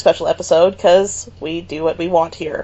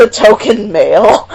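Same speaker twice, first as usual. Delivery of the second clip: laughing. Real, not acted. Laughing echo.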